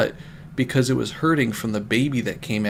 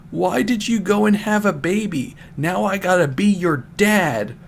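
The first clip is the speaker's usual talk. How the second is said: higher, lightly voiced rage; mock yelling; 6 semitones higher than usual. Knuckles keeps yelling at Rouge, lightly hammed-up anger. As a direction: act out a furious boyfriend, half-hearted. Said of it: "he kept yelling at her with the maddest feelings".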